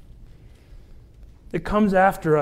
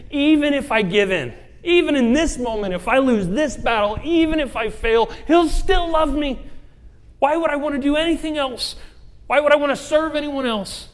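high, loud, defiant preaching; impassioned declaration; 9 semitones higher, 6 dB louder than usual. Acted. Believer answers back to temptation, high and loud defiance. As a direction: declare it at full force against the temptation. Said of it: "where you'd say".

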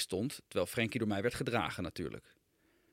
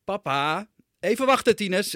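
much higher and louder, calling out in a panic; sweaty shout; 10 semitones higher, 9 dB louder than usual. Acted. Father shouting to his son from the changing table, frantic yell. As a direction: yell across the house, stressed and sweating. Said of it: "riep ik zwetend".

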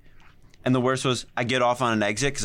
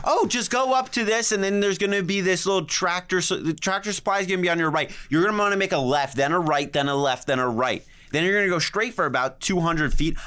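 higher, over-explaining directions; long-winded boss; 4 semitones higher than usual. Retold or imitated. Boss on the phone, long-winded directions. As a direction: drone through every turn. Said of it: "he would explain it".

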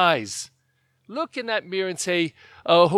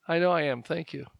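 smug thanks; 4 dB quieter than usual. Retold or imitated. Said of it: "shift real fast and say".

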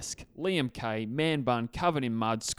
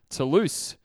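lightly hammed-up French accent; mock French accent; 2 semitones higher, 4 dB louder, slower than usual. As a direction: say the club name in a playful fake French accent. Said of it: "Don't mock the French accent".

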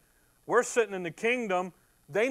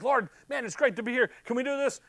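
higher, bubbling over with excitement; juiced-up Peter; 5 semitones higher, faster than usual. Acted. Excited Peter pleads with the Lord, much higher. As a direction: Peter all juiced up and eager. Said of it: "He's like".

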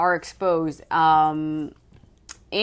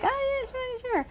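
dismissive brush-off; 8 dB quieter than usual. Retold or imitated. Staff brushing her off.

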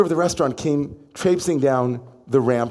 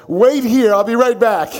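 much higher and louder, breathless with excitement; a laughing, eager shout to the rabbis; excited owner; 10 semitones higher, 7 dB louder than usual. Retold or imitated. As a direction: burst out with the news before dashing off.

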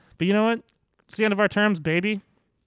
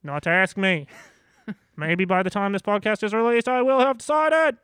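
Naheed Nenshi impression; 5 semitones higher, 6 dB louder than usual. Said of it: "That was my Naheed Nenshi impression".

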